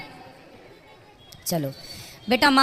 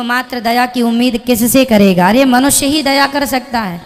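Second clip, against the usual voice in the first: louder, pressing sermon-like appeal; impassioned plea; 6 dB louder than usual. Real, not acted. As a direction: push the point home with force. Preacher urging mercy, voice rising. (जोशीला, ऊँची आवाज़ में उपदेश)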